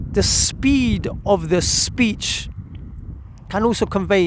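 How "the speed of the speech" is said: very slow, drawn-out words; slowed right down to demonstrate pace; slow demo. Shown as a demonstration. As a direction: stretch each word to show speed. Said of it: "The third thing is".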